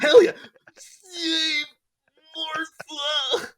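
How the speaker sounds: loud, high laughing cheer; real delighted shouting; excited cheer. Real, not acted. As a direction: whoop it up with laughter. Cheering the Martha joke.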